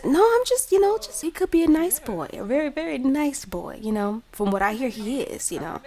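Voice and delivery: high-pitched protesting grandma; acted defensive grandma. Grandma pitching a nice boy to Lauren, high acted protest. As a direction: start very high, then ease down.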